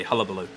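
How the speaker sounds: "hullabaloo" with an uh first vowel; American pronunciation. Shown as a demonstration. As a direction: say "hullabaloo" starting like hull. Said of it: "If you're American, you say".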